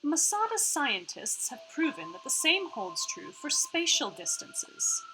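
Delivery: lifted part-Australian hologram voice; Iris. Acted. Hologram explains the gate to players, part-Australian Iris voice. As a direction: explain precisely with a slight Australian put-on accent.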